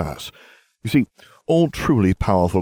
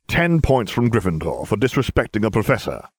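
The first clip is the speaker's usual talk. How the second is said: sneering; 3 semitones higher than usual. Acted. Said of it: "Severus sneered".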